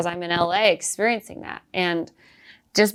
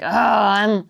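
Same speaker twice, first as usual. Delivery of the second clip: a hammed-up Southern accent, louder and higher; mock Southern accent; 3 semitones higher, 6 dB louder, slower than usual. Comedian mocking herself to Larry, light Southern accent. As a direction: fake a Southern accent, half joking. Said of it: "pull the wool over your eyes and make you think".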